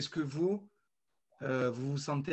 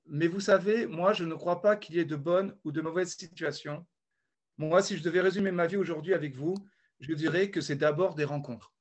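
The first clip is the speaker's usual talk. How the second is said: reading the quote. Acted. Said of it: "faire une citation".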